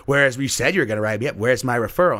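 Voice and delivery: insistent student. Retold or imitated. Student keeps at teacher before class, mock insistent. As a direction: imitate a kid pressing the teacher loudly. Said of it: "she keeps saying it".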